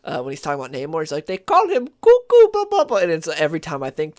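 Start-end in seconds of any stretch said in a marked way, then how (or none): 1.3-2.9 high, loud, cartoonish villain imitation; a mock trailer narrator in a cartoonish accent; Doofenshmirtz voice. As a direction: ham it up like a cartoon mad scientist. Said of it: "I don't know why I sound like Doofenshmirtz".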